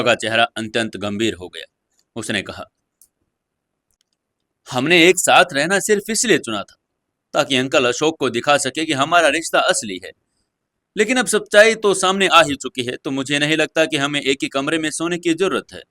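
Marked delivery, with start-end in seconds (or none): 4.7-15.8 clear, not harsh. Acted. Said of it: "उसके स्वर में कठोरता नहीं थी, पर स्पष्टता सी थी".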